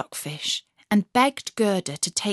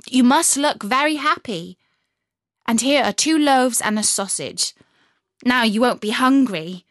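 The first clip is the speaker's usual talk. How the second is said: put-on higher, louder bossy girl; a brisk, bossy young robber girl; 3 semitones higher, 4 dB louder than usual. Robber girl voiced in story.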